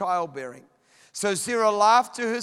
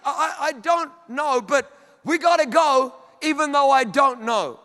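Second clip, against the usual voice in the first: stammering start, then louder insistence; flustered insistence; 3 semitones higher, 4 dB louder than usual. Acted. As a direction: play a husband floundering but determined. Abraham flustered but insistent.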